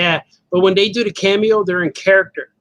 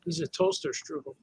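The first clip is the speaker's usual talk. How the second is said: high squeaky voice; 12 semitones higher, 13 dB quieter than usual. Pretend. Joke voice on toaster strudel.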